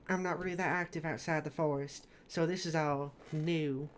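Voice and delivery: soft, lightly voiced southern accent; a hint of southern softness. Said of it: "Echo has a southern accent".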